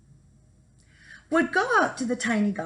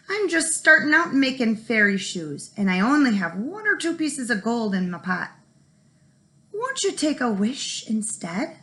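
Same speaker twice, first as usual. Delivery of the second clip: pleading; 3 semitones higher, 4 dB louder than usual. Acted. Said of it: "he pleaded".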